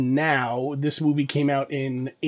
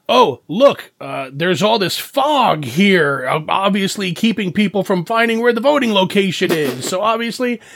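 sarcastic; 3 semitones higher than usual. Retold or imitated. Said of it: "somebody was being sarcastic".

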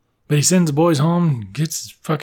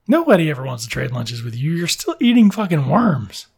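exasperated refusal. Retold or imitated. Boy refusing to trade lunches with worm eater, exasperated. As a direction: refuse in exasperation, stretching the last words.

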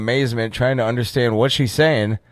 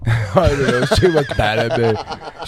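slow, laughing mimicry of a friend; mocking echo. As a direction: parrot his words back while laughing. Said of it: "S0 mimics friend's words laughing".

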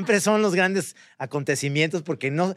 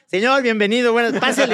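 salesman pitch; 4 semitones higher than usual. Retold or imitated. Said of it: "entonces yo digo".

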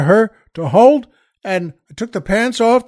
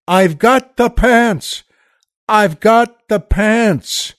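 mock scream; 2 semitones higher, much slower than usual.

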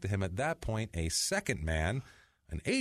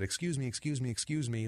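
mock pleading stranger; 5 semitones higher than usual. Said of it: "he repeatedly said".

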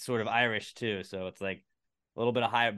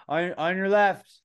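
higher, louder playful heads-up; friendly talking siren; 7 semitones higher, 5 dB louder than usual. Pretend. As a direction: pretend to be a polite siren. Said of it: "sirens that aren't so scary".

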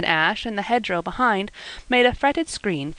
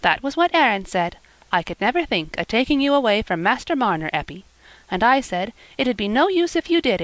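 a hint of a higher, eager girl's voice, telling her father; lightly voiced young girl Eppie; 4 semitones higher than usual. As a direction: gently play the earnest young daughter.

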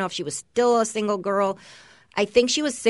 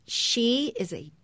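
slow, voiceless whisper; whispered insult; 7 dB quieter, slower than usual. Real, not acted. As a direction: whisper it slowly, like a scandalous verdict. Whispered insult about the author.

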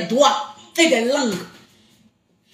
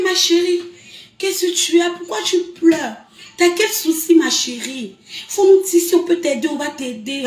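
sweet voice. Retold or imitated. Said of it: "La fille a une voix douce".

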